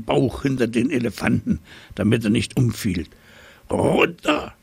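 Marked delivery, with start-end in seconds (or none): 3.7-4.6 very high squeaky command; a tiny mouse squeaking orders. A narrator's reading. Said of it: "fiepte die Maus".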